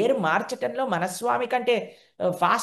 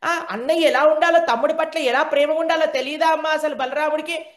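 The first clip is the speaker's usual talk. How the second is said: mock crying; 7 semitones higher, 4 dB louder than usual. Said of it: "ఏడ్చుకుంటూ కూర్చున్నాడటండి".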